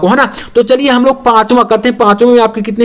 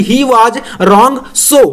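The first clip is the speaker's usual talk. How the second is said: slow dictation; much slower than usual. Shown as a demonstration. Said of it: "dictating slowly".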